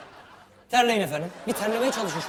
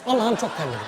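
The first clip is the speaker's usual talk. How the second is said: demo line; 3 dB louder than usual. Shown as a demonstration. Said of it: "yapıyorsunuz".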